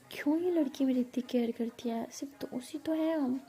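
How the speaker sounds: touched, wondering to herself; moved inner musing. Acted. Ishani musing alone after Pari leaves. (मन ही मन सोचती धीमी आवाज़)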